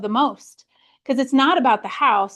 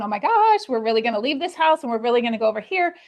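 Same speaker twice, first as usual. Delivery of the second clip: mock freak-out; faster than usual. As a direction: play your past panicking self, lightly. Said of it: "freaking out, going".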